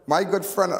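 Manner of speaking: high, loud hearty hello to a friend; imitating a boisterous old friend greeting you. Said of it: "he say".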